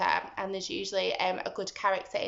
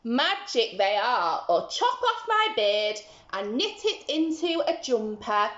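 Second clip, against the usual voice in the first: slow croaky storyteller's gnome; little man swearing his beans are magic; croaking little man; 4 dB louder than usual. Acted. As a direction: croak it with a chuckle. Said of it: "croaked the little man".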